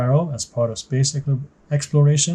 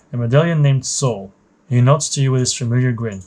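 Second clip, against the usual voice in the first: measured, even story read-aloud; story narration. A narrator's reading. Narrator setting the scene for a new trainee pilot, story narration. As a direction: narrate it like a mission briefing.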